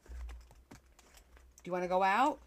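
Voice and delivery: talking to the dog. Real, not acted. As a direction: coax the dog, drawn out. Asking the dog to go out.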